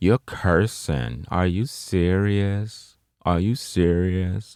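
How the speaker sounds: heavily sarcastic, biting tone. The speaker repeats a woman's remark to point out her tone: mock-sarcastic. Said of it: "Very sarcastically".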